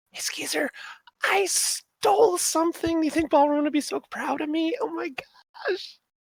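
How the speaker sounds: disembodied, very high stage whisper. As the pair walk away, a voice half-whispers to a companion: disembodied half-whisper. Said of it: "a disembodied voice whispers like".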